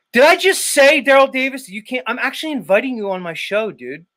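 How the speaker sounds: indignant outburst. Real, not acted. Indignant retort at chatter.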